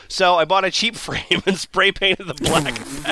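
words breaking up with laughter; cracking up. Real, not acted. Reader cracks up at his own spell instructions, laughing through it. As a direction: lose it laughing mid-line. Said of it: "take two".

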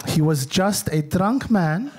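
slow, dismissive mom voice; imitating mom. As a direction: mom waving off her son on the dance floor, slow. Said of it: "And she went".

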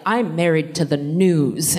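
slow, deadpan TV-drama line; straight-faced. Retold or imitated. TV character saying an unhinged line, mock straight-faced. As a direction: deliver an absurd line in mock earnest. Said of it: "they say it with a straight face".

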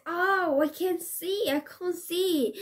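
high panicked wail; blinded ogre crying out; ogre screaming. Acted. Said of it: "The ogre screamed".

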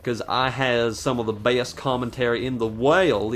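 lightly put-on Southern gentleman accent; mock Southern gentleman accent, understated. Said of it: "I turned into a southern gentleman".

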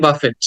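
বাফেট with a sounded final t; mispronunciation. Shown as a demonstration. Teacher quotes what many people say, mistaken pronunciation. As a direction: say বাফেট as "BAF-et". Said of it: "সেক্ষেত্রে অনেকে উচ্চারণ করে".

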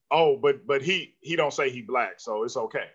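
hushed, low mock justification; mock rationalizing. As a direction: imitate people talking themselves into it, low and quiet. Mimics people rationalizing the casting.

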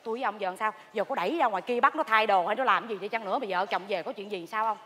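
low, soft, anxious huddle; hushed worry. Acted. Gossip conferring after secrets are exposed, hushed worry. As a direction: drop right down as if fearing discovery.

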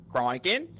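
brief imitation of an Australian accent. Player quoting the attacker's call, light Australian accent. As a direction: quote it with light Australian vowels. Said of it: "in his Australian accent".

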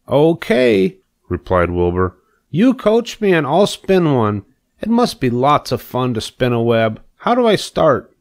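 high, bubbling piglet voice; a keen pupil asking to be coached; eager young pig. Acted. Wilbur asking Charlotte to coach his web, eagerly high.

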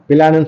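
பிளான் broken into pi-lan; inserted i vowel. Shown as a demonstration. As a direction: put a short "i" between p and l in பிளான். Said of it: "சொல்ல மாட்டோம்".

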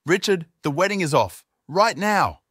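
loud, high exclamation; dramatic outburst. A narrator's reading. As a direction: burst out in shock. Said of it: "sudden and dramatic outburst".

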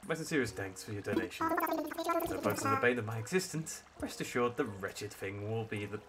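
a lightly voiced stuffy professor owl; hint of a posh museum curator; sophisticated tone. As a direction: read it like a pompous scholar, barely shifted. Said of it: "saying it with a sophisticated accent".

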